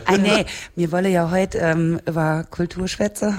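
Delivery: Saarland dialect. Shown as a demonstration. Saarlander steers back to culture, in Saarland dialect. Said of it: "das für uns so eine Saarländerin, aber die hat auch Dialekt".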